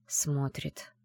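barely voiced, just the lips; mouthed whisper. A narrator's reading. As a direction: breathe it with the lips only. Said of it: "одними губами шепнула Аяла".

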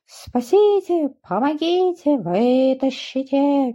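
scared duckling begging to be pulled out; frightened cries for help. A narrator's reading. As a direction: call out from the ravine in fright. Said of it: "перепугался утёнок".

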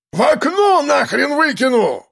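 high, slow furious yell. A narrator's reading. Storekeeper screaming threats at the police. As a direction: bellow the threat out the window. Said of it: "орал кладовщик".

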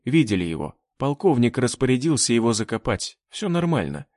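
usual speaking voice

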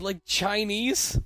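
drawn-out confused ask; puzzled. Retold or imitated. Puzzled question, drawn out slow.

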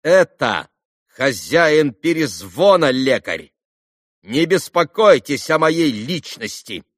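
put-on boy insulting the doctor; loud insolent retort. A narrator's reading. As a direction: sneer lekar at him on purpose. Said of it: "отчеканил опять Коля".

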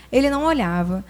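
ordinary talk, nothing marked

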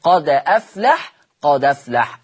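قد أفلح joined as قدَفلح; recited with naql. Shown as a demonstration. Teacher recites the example again for students. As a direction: recite قد أفلح with the hamza's fatha on the dal. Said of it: "ساكن".

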